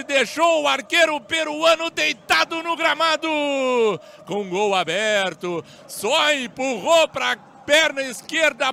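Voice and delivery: excited goal recap. Real, not acted.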